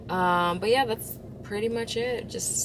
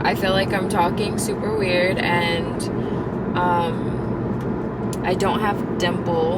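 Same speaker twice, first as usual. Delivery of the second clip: talking with a numb mouth; words slurred from dental numbing; 7 dB louder, slower than usual. Real, not acted. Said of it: "my mouth is numb".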